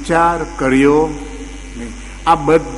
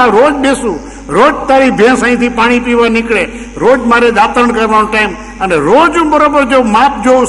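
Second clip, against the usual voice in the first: indignant pandit; 4 semitones higher than usual. Acted. The pandit scolds the farmer who questioned his leap. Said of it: "પંડિતજીએ જવાબ દીધો કે".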